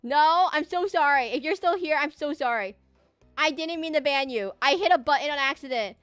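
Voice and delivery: loud, high, frantic sorry; desperate apology to the banned viewer; panicked apology. Real, not acted. Apologizing after accidental ban.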